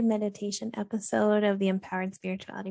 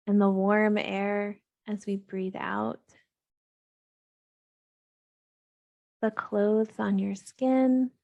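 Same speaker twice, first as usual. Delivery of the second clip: calm, even meditation voice with long pauses; unhurried, steady grounding-practice delivery; guided meditation. Real, not acted. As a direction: gently guide listeners into grounding, leaving space between phrases.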